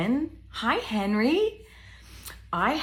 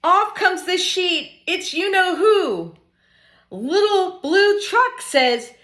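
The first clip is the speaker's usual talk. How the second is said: lively storytime voice building to high, loud excitement; bouncy picture book reading; reading to children; 6 semitones higher, 6 dB louder than usual. Acted. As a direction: read up to the big reveal for little ones.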